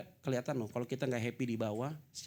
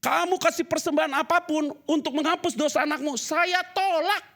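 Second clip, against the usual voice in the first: voicing God; 10 dB louder than usual. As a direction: proclaim God's refusal, dragging out saya tolak. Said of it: "kata Tuhan". (Tuhan menolak dengan suara keras, saya tolak diucapkan sangat pelan)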